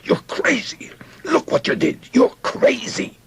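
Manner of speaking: strained, very high-pitched frantic yell; shouting. A narrator's reading. Soldier to his friend after the shooting, shouting. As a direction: yell it in horrified accusation. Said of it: "started shouting at his friend".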